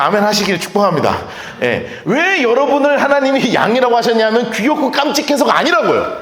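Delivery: ordinary delivery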